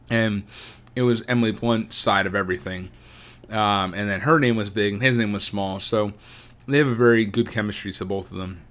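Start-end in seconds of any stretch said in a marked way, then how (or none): 5.8-8.6 talking with chocolate in mouth; eating chocolate. Real, not acted. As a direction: speak around a melting bite. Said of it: "What are you eating?".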